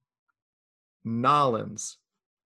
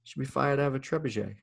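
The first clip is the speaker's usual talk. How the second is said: lightly put-on English accent, a bit softer; 4 dB quieter than usual. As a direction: say it with a hint of English. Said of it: "like, an English accent to say it".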